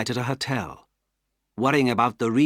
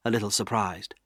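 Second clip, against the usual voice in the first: ordinary delivery, nothing marked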